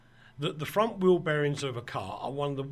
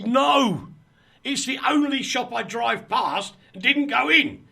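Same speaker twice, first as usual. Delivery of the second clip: loud, high cry of disbelief; exasperated outburst; 9 semitones higher, 9 dB louder than usual. Retold or imitated. Frustrated shopper to helpful stranger about the missed shop, exasperated. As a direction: blurt it out, pitched right up. Exasperated reply in retold exchange.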